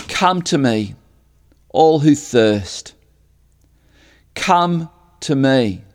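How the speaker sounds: slow, weighty call; declaring. Retold or imitated. Jesus calls from the temple steps, slow and solemn. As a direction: call them in, each word weighted. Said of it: "and he declares".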